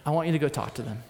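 mildly gentle, voiced nudge from God. God nudging him toward the soldiers, gently. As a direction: say it gently, as a quiet prompting. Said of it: "he gently just says".

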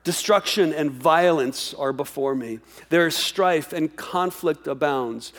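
slow, grave reading of the text; slow scripture reading. Acted. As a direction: let each line of the verse land slowly. Reads scripture aloud.

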